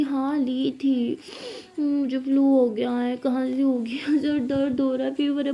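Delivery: lightly acted poorly voice; sick, drawn-out complaint. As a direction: drag it out as if under the weather. Sick partner answers about her illness.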